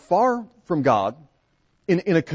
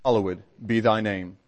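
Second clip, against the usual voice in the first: prayer; 3 semitones lower than usual. Real, not acted. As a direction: lead the Lord's Prayer reverently. Congregation prayer, Lord's Prayer.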